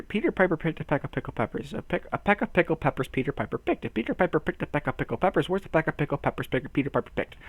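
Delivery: brisk run-through of a twister; fast tongue twister. Pretend. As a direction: rattle it off without stopping.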